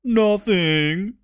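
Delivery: innocent smiling nothing. Acted. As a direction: smile it out innocently. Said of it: "smiling innocently".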